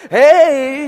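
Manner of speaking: high, loud beckoning call; pretty lady. Retold or imitated. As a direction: draw it out as a mock come-on. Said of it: "there's a pretty lady that goes by".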